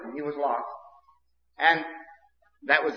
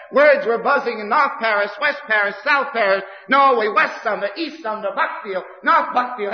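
excited listing; 5 semitones higher, 3 dB louder than usual. Real, not acted. Preacher listing towns, heightened.

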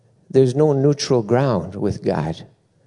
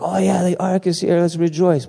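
higher, lightly voiced breezy David; mock casual David; 7 semitones higher than usual. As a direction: play David shrugging it off. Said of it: "David didn't just stop there, like".

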